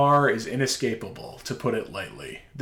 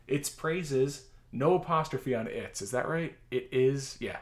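dictating. Shown as a demonstration. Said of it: "I'll tell the punctuation as I read it".

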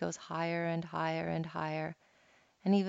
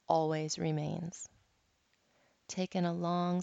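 guided meditation. Acted. Resumes guided meditation after anecdote.

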